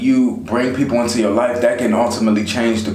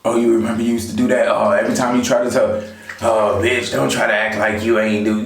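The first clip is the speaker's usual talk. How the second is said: put-on nagging old friend. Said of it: "constantly reminding you of the person you used to be".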